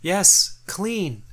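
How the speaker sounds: high squeaky critter; squeaky creature voice. Acted. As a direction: chirp the name high and tiny. GM creature answers.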